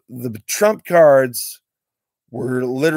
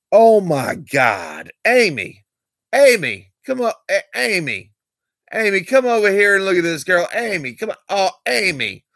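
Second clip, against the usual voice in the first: higher, fast, overexcited calls of a name; imitating excited stranger; 8 semitones higher than usual. Vlogger imitates the excited stranger calling his girlfriend over. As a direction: mimic a guy yelping for his girlfriend to come look. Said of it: "He was talking ghetto slang".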